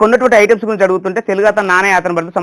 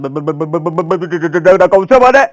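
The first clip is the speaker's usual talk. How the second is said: lightly voiced stuttering politician, stuck on syllables; stammering politician; 4 dB louder, slower than usual. Imitating Hanumantha Rao stammering at the meeting. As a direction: stammer and push through the words. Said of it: "పాపం హనుమంతరావు గారు మాట్లాడతారు".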